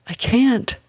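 high-pitched cry of giving up; desperate protest. A narrator's reading. Exhausted woman in labor to her family, desperate protest.

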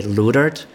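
"Ludert" said with a long oo in the first syllable; American mispronunciation. Shown as a demonstration. Quoting how Americans say his surname, "Ludert" with an oo. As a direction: say "Ludert" slowly, American-style, with oo for German oi. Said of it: "in the U S, people usually try".

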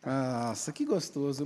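soft, breathy ASMR murmur; ASMR whisper. Pretend. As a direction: murmur it close to the mic. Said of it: "Faz um A S M R pra nós". (sussurro ASMR)

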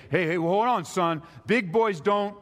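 a hint of a dad checking his crying son; admonishing dad.

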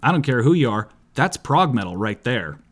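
lightly voiced metalhead dude; a hint of a dopey metal guy; Barry the Metal Guy. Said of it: "As a character called Barry the Metal Guy".

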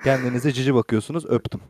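airline pilot announcement. Pretend. Mock pilot signing off.

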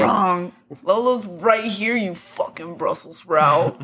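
slow, drawn-out mock British insult; British accent. Co-host voicing the British character's retort, mock British accent. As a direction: scold in a put-on British accent. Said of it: "He said".

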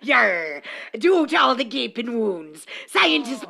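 hammy pirate narrating; laughing cartoon pirate. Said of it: "pirate voice".

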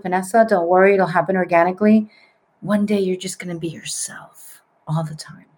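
soothing, softening to near whisper; imitating a consoling psychic; gentle reassurance. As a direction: comfort someone tenderly, trailing into breath. Psychic comforts her as she cries.

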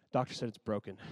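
very soft, low retold answer; hushed, low-pitched comeback; quiet pointed reply.

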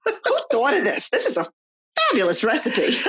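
put-on high, savoring little-kid voice; imitating toddler. Mom imitating her son's first gum, high and delighted. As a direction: sound like a tot tasting something amazing.

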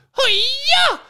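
high mock ninja cry; ninja yell. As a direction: yelp it like a cartoon ninja. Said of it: "make ninja noises".

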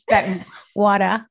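slow Boston accent on that water. Shown as a demonstration. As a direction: drop the r Boston style. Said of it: "only that sounds a little bit like Boston".

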